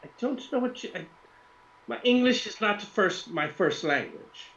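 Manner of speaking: high, halting Russian woman; high-pitched put-on Russian voice; female Russian accent. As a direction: stumble through English in a high Russian accent. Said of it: "a female Russian accent".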